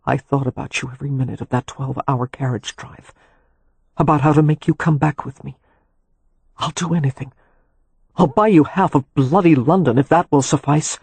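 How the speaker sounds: lightly voiced longing husband; ragged man's voice. A narrator's reading. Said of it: "he said raggedly".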